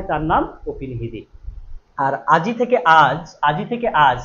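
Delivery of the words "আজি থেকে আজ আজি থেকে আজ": "আজ" ending on J with no I, set against "আজি"; final I dropped. Shown as a demonstration. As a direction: contrast "আজি" with a clipped-off vowel in "আজ". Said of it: "ইকারটাই লোপ হয়ে গেছে". ("আজি" থেকে "আজ", শেষের ই বাদ দিয়ে)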